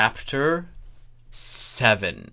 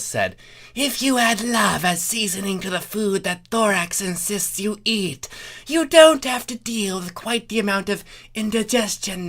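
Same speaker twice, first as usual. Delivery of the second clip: high put-on voice of Chrysalis as a chef; 8 semitones higher, 3 dB louder than usual. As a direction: play the villain queen sweetly lecturing.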